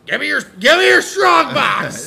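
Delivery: high, loud robber yell; mock furious shout. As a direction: bark the demand in fake rage. Raging robber.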